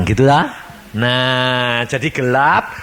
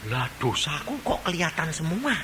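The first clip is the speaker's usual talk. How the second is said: dismayed sinner; 3 semitones higher, 5 dB quieter than usual. Acted. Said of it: "Lalu dia lihat".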